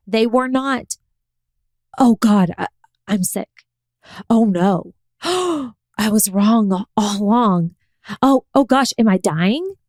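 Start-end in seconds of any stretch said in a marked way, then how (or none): 2.0-9.7 mock panic. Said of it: "do I go into a spiral".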